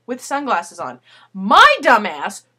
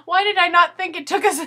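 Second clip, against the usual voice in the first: laughing friend; 6 semitones higher, 5 dB louder than usual. Retold or imitated. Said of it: "She's like".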